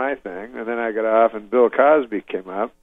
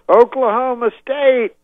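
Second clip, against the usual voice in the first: much higher, louder, stretched shout; crowd-rousing shout; 12 semitones higher, 6 dB louder, slower than usual. Retold or imitated. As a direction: call it out to the stadium. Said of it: "He goes".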